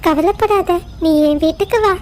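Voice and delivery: gentle reassuring. Acted. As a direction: soothe a frightened child. Mother bird comforts lamb.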